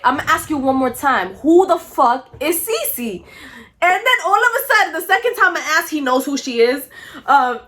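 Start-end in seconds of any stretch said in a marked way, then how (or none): 0.0-3.2 retold stern demand. Confronts boyfriend in retold phone call.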